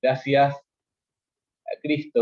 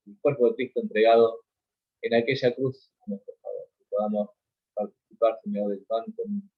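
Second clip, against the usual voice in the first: communion prayer. Acted. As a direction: pray over the bread in front of the congregation.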